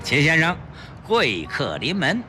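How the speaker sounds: effusive shopkeeper greeting a valued customer, then showing off his wares; jovial, salesman-like pawnbroker patter; beaming pawnshop boss. Acted. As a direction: talk up the treasure with swooping pitch. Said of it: "连忙喜笑颜开地迎上去".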